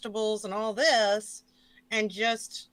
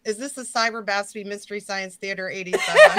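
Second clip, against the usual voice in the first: laughing; 9 dB louder than usual. Real, not acted. Laughing while asking.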